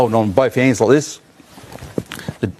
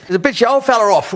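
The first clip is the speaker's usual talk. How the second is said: imitating; 12 semitones higher than usual. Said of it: "he goes".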